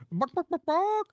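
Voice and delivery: high, rising playful barks; mock barking. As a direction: bark it out like a silly dog. Comic chicken-dog transformation read aloud.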